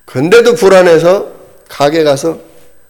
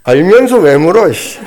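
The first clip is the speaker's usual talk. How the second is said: mock anger. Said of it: "막 화가 났어요".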